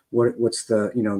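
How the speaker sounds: ordinary talk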